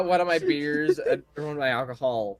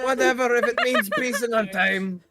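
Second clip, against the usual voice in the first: sheepish character voice; 8 semitones higher, 4 dB louder than usual. Acted. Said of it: "player voices character reply".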